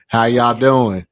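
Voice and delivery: loud, eager greeting to the family; mock-friendly hello, laid on thick; imitating the short boyfriend. Short boyfriend greeting the tall family, loud and eager. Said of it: "he walk up on the show like this".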